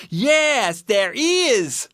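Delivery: high little bear voice; eager Baby Bear. A narrator's reading. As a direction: answer eagerly as a cub. Baby Bear answers his father.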